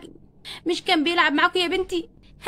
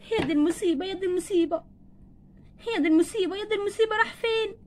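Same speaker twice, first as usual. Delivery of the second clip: crying; 4 dB quieter than usual. Acted. Mother lamenting her missing son, crying. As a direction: wail softly in mounting distress. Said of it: "بتعيطي ليه؟".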